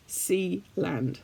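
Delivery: Zeeland said the Dutch way, soft ee; Dutch pronunciation. Shown as a demonstration. Teaching viewers to say Zeeland in Dutch. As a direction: say Zeeland like a native Dutch speaker. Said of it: "I live in the west of the country in Zeeland".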